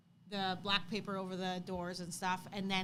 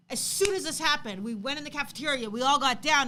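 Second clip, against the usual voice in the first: excited; 4 semitones higher, 7 dB louder than usual. Retold or imitated. Son's excited retelling, voiced.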